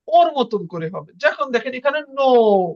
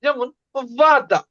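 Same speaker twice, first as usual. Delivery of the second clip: slow ওয়াদা with দা stressed; teacher drawing out ওয়াদা, weight on দা; much slower than usual. Shown as a demonstration. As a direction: stretch ওয়াদা, lean on দা. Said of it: "তো স্ট্রেসটা কি বোঝেন?".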